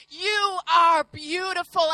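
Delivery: slow, earnest "are beautiful"; mean every word, slowly; heartfelt declaration; slow sincere compliment. Retold or imitated. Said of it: "finally says".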